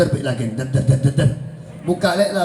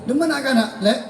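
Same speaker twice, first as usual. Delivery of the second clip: put-on sulking child; 6 semitones higher, faster than usual. Sulking child voiced in anecdote.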